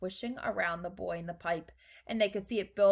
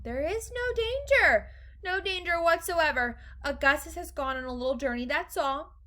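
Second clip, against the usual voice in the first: reassuring; 7 semitones higher than usual. A narrator's reading. Wonka tells the dear lady there's no danger, reassuring. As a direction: soothe a panicking parent.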